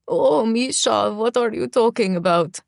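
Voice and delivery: high-pitched mocking crow. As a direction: ham up a squeaky girlish imitation. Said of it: "he crows in a high-pitched voice".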